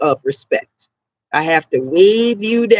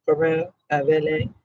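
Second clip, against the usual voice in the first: unimpressed mockery; 4 semitones lower, slower than usual. Leaning on the wall watching them, in low sarcastic asides. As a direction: mutter unimpressed as they keep coming back.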